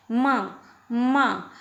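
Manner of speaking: माँ said separately with a nasal vowel; nasal sound demonstration. Shown as a demonstration. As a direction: let माँ sound through the nose. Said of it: "नासिका की ध्वनि आ रही है". (माँ में नाक की ध्वनि)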